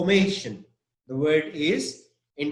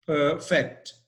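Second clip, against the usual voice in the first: perfect as per-FECT, second syllable stressed; weight on the end of "perfect". Shown as a demonstration. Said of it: "The stress is on fact".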